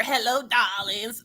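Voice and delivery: slow, soft sultry "Hello, darlings"; husky diva voice. Retold or imitated. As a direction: purr it like a fake sultry diva. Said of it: "tell me that don't sound like an impersonator".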